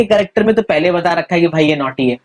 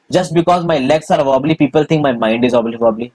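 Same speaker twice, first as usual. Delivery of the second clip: very slow textbook reading, each word spaced; slow reading aloud; much slower than usual. Acted. Teacher reading a textbook line to students, slow recital. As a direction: read it out slowly so the class can follow.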